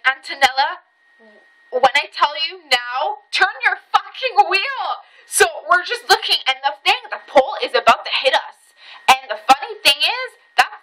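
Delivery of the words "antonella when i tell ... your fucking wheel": retold urgent command. Retold urgent order to driver.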